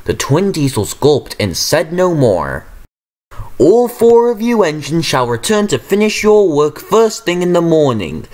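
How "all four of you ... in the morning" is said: thundering command. A narrator's reading. Controller thundering orders at all four engines. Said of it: "thundered Sir Topham Hatt".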